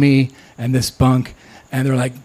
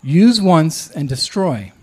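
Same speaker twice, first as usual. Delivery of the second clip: slow emphatic reading; 3 semitones higher, slower than usual. Shown as a demonstration. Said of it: "in big letters, it says".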